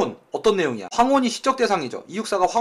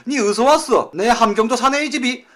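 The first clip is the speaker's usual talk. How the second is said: mock northern flirt; 4 semitones higher, 3 dB louder than usual. Teacher acts out northern man flirting.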